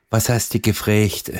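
playful Vogtland dialect question. Acted. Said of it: "Im Vogtland gibt's auch so ihre Weltsprachen".

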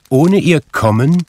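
high, loud spectral warning; stern ghost. A narrator's reading. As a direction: pronounce it as an insistent spirit. Narrator voices Marley's ghost.

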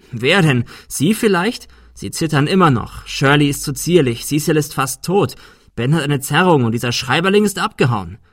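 rising from firm to loud and exasperated. Acted. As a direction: build up your anger line by line. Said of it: "Arthur war immer lauter geworden".

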